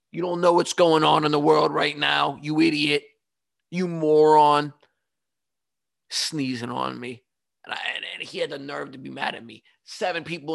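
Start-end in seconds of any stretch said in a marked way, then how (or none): 0.1-4.7 mock scolding, a little louder, stretched insults; friends' retold screaming. Friends scolding the sneezer, re-enacted with moderate force. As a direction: berate him as his friends did, without full yelling. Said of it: "All of his friends are screaming at him".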